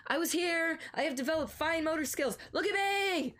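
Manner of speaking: high proud puppy voice; chirpy boastful pet voice; voicing the dog. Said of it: "As if to say".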